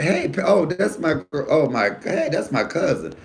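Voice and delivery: high-pitched delighted recognition; friendly greeting. Retold or imitated. Comedian retelling a greeting to his cousin, high and friendly. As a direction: hail a relative with surprise, high and lively. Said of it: "it's the way I say it".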